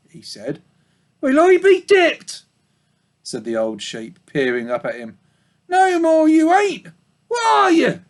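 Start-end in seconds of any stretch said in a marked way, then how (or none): 1.2-2.4 very high, slow amazed sheep voice; old ewe startled to see a pig; astonished old ewe. Acted. 5.7-8.0 put-on old ewe asking the pig what he is; puzzled old ewe. Old sheep voice.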